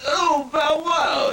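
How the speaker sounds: slow crying howl as a dog; Sylvester Stallone as a dog. Acted. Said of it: "Sylvester Stallone as a dogged".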